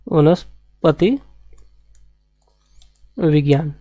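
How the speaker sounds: drawn-out, syllable by syllable; slow dictation. Shown as a demonstration. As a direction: stretch it out so students can write it. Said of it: "और दूसरा है आपका वनस्पति विज्ञान".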